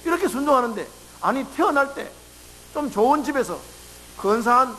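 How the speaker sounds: lightly voiced grumbling to the father; mock complaining. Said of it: "얼마나 불평하고 원망하겠습니까". (가볍게 불평하는 말투)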